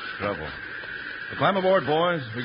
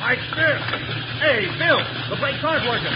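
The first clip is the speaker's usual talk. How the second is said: high-pitched frantic cry; panicked alarm; 10 semitones higher than usual. Acted. Timber boss finds the brakes are dead, panicked. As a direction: raise the alarm in rising panic. Brakes fail on downhill train.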